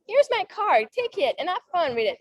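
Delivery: self-assured, upbeat offer; confident handing over. Shown as a demonstration. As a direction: hand it over with total confidence. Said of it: "It's like".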